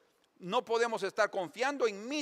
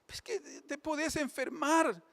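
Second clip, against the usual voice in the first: crying husband; 9 semitones higher, slower than usual. Acted. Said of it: "el marido está llorando".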